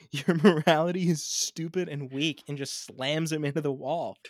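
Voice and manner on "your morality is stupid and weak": villain taunt. Retold or imitated.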